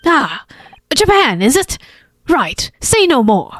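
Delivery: put-on Irish accent. Irish character offers money.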